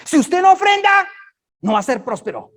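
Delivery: high, loud mock warning; mocking legalist. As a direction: whine it like a pushy pastor. (imitación burlona, aguda y fuerte)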